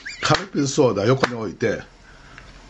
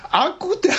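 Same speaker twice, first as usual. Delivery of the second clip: incredulous laughing repeat. Real, not acted. Host laughs, repeating guest's gaffe.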